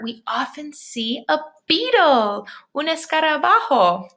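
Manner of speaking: slow, wondering picture-book voice; reading to children. Acted. Teacher reading a bug book aloud to her class, full of wonder. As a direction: read it out like a picture book to little kids.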